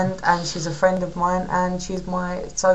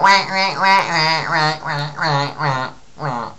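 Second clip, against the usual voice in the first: angry duck; much slower than usual. Pretend. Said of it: "in the style of, um, a angry duck".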